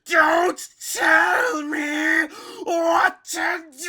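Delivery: slow, high, loud angry shout; Frieza shouting back. Retold or imitated. Frieza answering Seventeen, high loud shout. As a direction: snap it back at him. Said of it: "constantly responding".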